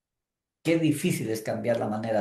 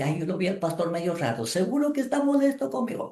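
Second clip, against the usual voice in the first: anxious mother fretting; 5 semitones higher, faster than usual. Retold or imitated.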